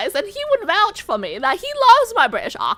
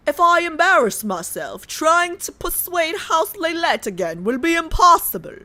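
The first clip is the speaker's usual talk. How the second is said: a second British-accent read at her usual pitch; British accent retake. Shown as a demonstration. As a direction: try the line again in British. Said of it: "How did it get worse?".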